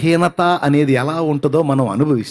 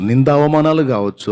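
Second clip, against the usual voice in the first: ordinary delivery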